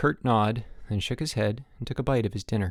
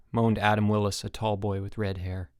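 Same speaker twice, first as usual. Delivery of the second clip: usual speaking voice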